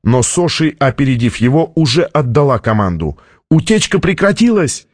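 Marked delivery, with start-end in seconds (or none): 3.5-4.9 high-pitched urgent report; acted cry, volume held; excited shout. A narrator's reading. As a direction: call the news out to the room. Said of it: "крикнул техник".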